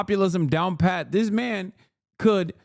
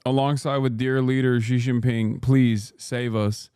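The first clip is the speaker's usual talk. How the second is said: low, hammed-up begging to Carney; mock plea; 4 semitones lower than usual. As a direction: beg Carney for rescue in a lowered mock voice.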